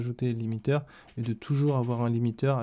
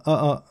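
test ah into the mic; 3 semitones higher than usual. Shown as a demonstration. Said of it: "Quand je parle".

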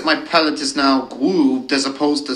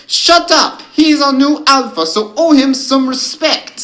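high, loud werewolf rebuke; howled command; 10 semitones higher, 9 dB louder than usual. A narrator's reading. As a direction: howl down the jeering pack. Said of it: "before Yulia howled".

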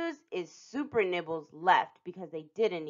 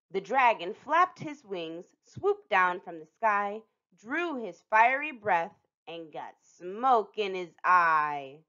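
slowing rhyme reading; slow down into the punchline; slow storybook rhyme; slower than usual. A narrator's reading.

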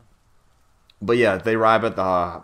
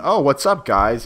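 put-on higher girly "Oh, what's up, guys?" rising at the end; mock high girly; 6 semitones higher, 6 dB louder, slower than usual. Nikki casually greeting the guys, mock high girly voice. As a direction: play the unbothered naked girl, pitched up. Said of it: "as in".

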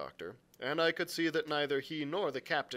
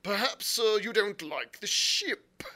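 higher, louder, drawn-out angry question; 11 semitones higher, 10 dB louder, slower than usual. A narrator's reading. Squire challenging the captain over the ship, very angry. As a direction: demand it indignantly, slowing at the end. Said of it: "very angry as I could see".

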